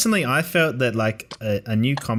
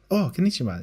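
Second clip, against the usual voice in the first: polite anime voice; 5 semitones higher than usual. Retold or imitated. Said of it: "typical Japanese voice actor. Sounds very anime".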